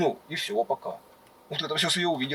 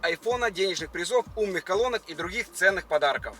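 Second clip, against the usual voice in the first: upbeat promo announcer read. Acted. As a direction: pitch the giveaway like an ad. Sponsor giveaway ad read.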